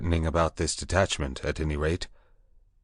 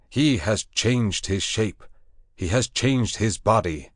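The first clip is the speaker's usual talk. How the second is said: high, loud commanding proclamation; proclaiming loudly; 4 semitones higher, 3 dB louder than usual. Acted. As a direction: lift the voice over the beasts. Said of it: "lifted up my voice".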